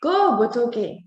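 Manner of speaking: a mild, slow called-out shout to a friend; strident shout. Acted. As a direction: call out Botoke's name across the forest, lightly. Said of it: "came a strident shout".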